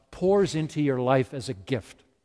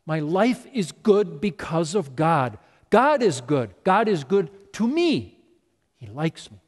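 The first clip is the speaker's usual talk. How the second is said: grateful joy. Retold or imitated. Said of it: "He connected the dots".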